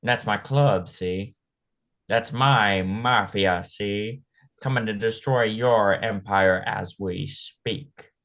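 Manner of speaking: slow, drawn-out mobster boasting; old gangster voice, see. Acted. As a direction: play a classic gangster tacking on "see". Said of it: "and he's just like".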